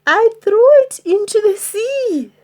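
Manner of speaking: high stammering, scared; frightened stammer. Acted. Troll stammering to angry pirates, frightened. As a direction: stutter it out in fright.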